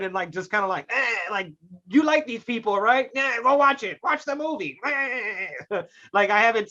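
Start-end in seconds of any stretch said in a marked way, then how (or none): 1.9-4.8 slightly raised, mock-pushy urging; pushy sales pitch. Studio pushing its movie on viewers, mock-pushy. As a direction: nudge them along like a hammy salesman.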